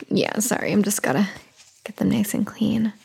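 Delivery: soft aside whisper. Real, not acted. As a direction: whisper it under your breath.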